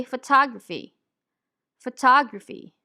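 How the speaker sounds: "photography" with neutral uh in first and third syllables; reduced schwa vowels. Shown as a demonstration. Teacher showing where the schwas fall in a word, reduced vowels. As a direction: say "photography" as fuh-TAH-gruh-fee. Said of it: "show the location of the neutral vowel sounds".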